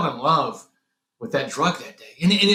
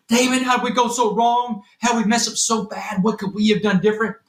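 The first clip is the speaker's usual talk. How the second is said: retold crying father; 5 semitones higher than usual. Father on the phone to jailed son, a touch of crying. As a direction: wail it as the broken dad. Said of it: "he is screaming and crying".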